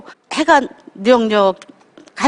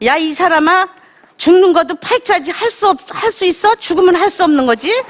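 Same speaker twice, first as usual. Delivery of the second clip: higher, offhand retort as a lightly voiced husband; blunt husband; 4 semitones higher than usual. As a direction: toss it off like a tactless husband. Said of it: "한된 소리가". (무뚝뚝한 남편 흉내, 살짝 높게)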